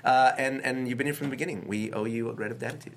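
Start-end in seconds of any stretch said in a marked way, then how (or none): 1.7-2.9 swapped first sounds, grat of datitude; jumbled syllables. Real, not acted. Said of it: "I've been doing spoonerisms all night".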